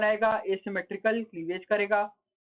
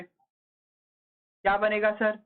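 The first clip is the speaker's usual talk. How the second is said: drawn-out question; much slower than usual. Shown as a demonstration. Teacher to class, coaxing the answer, very slow drawn-out question. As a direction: stretch every word very slowly.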